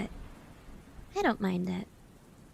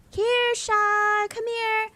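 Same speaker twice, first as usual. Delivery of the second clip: high-pitched call, louder on Kershaw; calling a horse; 11 semitones higher, 4 dB louder, much slower than usual. Pretend. Streamer pretends to call a horse named Kershaw, high call. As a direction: sing out the name like calling a pet horse.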